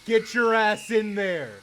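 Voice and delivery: loud, high order; commanding yell. Real, not acted. Player ordering Bonnie into the fight, commanding yell.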